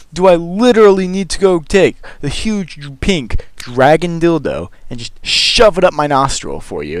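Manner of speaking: hammed-up disbelief at a weird compliment; mock outraged rant. A guy mocking the girl who praised his nostrils, outraged. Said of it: "the general response to this is".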